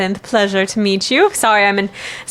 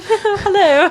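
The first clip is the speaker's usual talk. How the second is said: high squeaky greeting; 12 semitones higher than usual. Acted. Holly greets the strangers.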